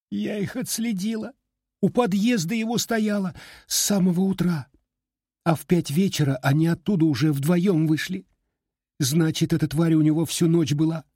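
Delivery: put-on high, upset girl insisting; a jilted girl, hurt and stubborn; tearful young woman. A narrator's reading. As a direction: heartbroken girl pleading her case. Heartbroken girl voice.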